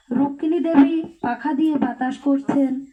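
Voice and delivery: mic too close to mouth; speaking right into the mic. Real, not acted. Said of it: "মাইকটা একটু দূরে নাও". (মাইকের খুব কাছে কথা বলা)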